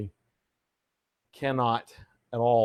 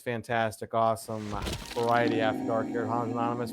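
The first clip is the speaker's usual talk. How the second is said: announcer voice. Acted. Showman opening of the stream.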